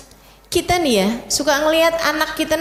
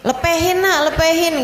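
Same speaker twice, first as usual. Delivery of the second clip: coaxing parent; 4 semitones higher than usual. Shown as a demonstration. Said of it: "Kalau kita ngomongnya gimana tuh?".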